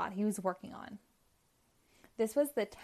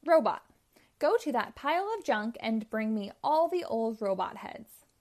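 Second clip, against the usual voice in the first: loud command; 5 dB louder than usual. Acted. Robotnik commands his robot.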